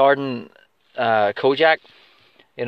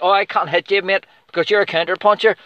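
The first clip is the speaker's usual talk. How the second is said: mocking whiny fighter; 5 semitones higher than usual. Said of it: "you're like".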